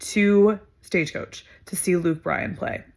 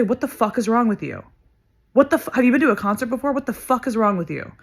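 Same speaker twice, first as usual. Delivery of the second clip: indignant retold telling-off, pitched up; angry confrontation; 4 semitones higher than usual. Friend standing up for Kelsey to a grown man, angry. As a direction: re-enact a quick, incredulous challenge.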